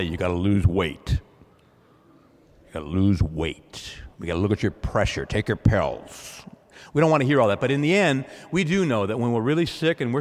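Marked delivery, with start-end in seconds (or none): 0.0-6.4 nagging doctor. Pretend. Doctor lecturing about health.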